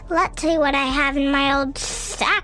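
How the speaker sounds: whispered cackling demon voice. Acted. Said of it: "cackled the Demon Santa".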